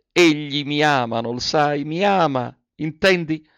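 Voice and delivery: voce alta ed esaltata che sale; excited, rising. Acted. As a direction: confessa la gioia quasi senza fiato. Joyful confession to her friend. (alla sua amica Marianna, confessione esaltata e più acuta)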